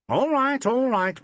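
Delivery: high, loud protesting. A narrator's reading. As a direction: throw up the pitch in protest. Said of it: "protested Ackroyd".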